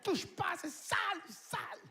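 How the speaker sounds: high, slowed, fussy mock wife; wife scolding about dirty hands; nagging wife. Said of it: "ma femme me sautait dessus".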